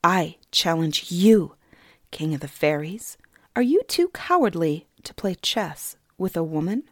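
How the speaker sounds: put-on girl taunting the king as a coward; defiant challenge. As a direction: dare him to refuse. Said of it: "stared back at him defiantly".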